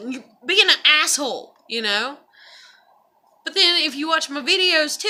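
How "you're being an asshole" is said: louder callout; calling out. Retold or imitated. Calling someone out in her video, louder. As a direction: call them out, punching "being". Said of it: "I was like".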